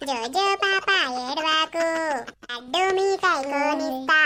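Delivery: put-on slow, sing-song hushing of a baby; soothing nursery rhyme. Grandmother hushes the crying baby with a train rhyme, slow sing-song. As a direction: lull a crying baby with drawn-out chant.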